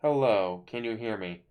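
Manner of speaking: muffled through a covering hand; hand over mouth. Real, not acted. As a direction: talk through your hand. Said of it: "'Cause I put my hand over my mouth".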